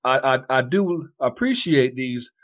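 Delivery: a put-on Southern gentleman politeness; mock Southern accent. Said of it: "didn't sound like a Southern accent".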